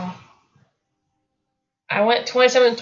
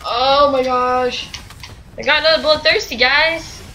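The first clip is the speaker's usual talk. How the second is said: excited; 4 semitones higher than usual. Real, not acted. Excited about a kill streak.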